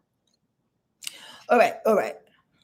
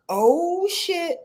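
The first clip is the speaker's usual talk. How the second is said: higher, panicky voice of the Virgo sign; 6 semitones higher than usual. Acted. Reader voicing a panicked Virgo, high and alarmed. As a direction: play the flustered Virgo bracing for trouble. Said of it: "the Virgo is like".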